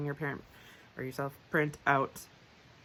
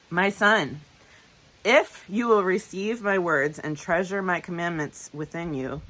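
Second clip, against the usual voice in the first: verse reading with IF and THEN punched louder; emphasis on conjunctions; 4 dB louder than usual. Shown as a demonstration. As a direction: read scripture, leaning hard on "if" and "then". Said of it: "you'll hear me emphasize them".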